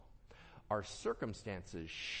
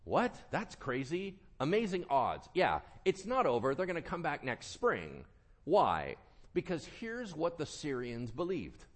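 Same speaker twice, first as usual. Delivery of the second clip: ordinary talk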